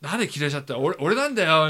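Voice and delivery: husband calling wife back, as a hammed-up scammer; mock phone scammer. Half-joking scam caller voice. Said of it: "and I was like".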